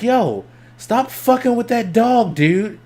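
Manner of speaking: put-on high, slow call across the street at the kid; yelling at a kid teasing a pit bull; blurted call-out. Teen blurts at kid over fence, high call-out. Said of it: "I was like".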